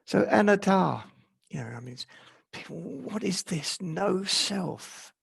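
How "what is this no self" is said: higher, softened mock bewilderment; puzzled questioning. Teacher voicing people's questions about no self, lightly imitated puzzlement. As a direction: imitate people baffled by an idea.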